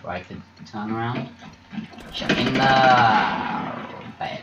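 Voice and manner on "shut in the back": long, loud stretched shout; frustrated long call; drawn-out yell. Real, not acted. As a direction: drag it out as a yell. Yelling at a teammate mid-fight.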